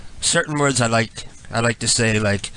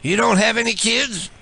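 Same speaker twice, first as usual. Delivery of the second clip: higher, overly friendly fake pal; chummy prank caller; 5 semitones higher than usual. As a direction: greet him like an old buddy he's never met. Prank caller playing a fake persona.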